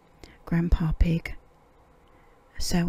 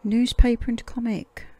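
bright and loud; 4 semitones higher, 4 dB louder than usual. Acted. Peppa hands over items.

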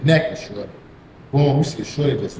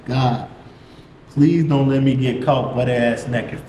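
slow, understated plea to God; retold prayer in a measured voice; praying for himself; 2 semitones lower, slower than usual. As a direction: beg slowly and earnestly. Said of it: "I'm trying to pray for myself".

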